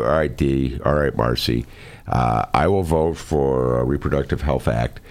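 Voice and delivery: voicing the other side while barely holding laughter; half-suppressed laughter. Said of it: "can't even say without laughing".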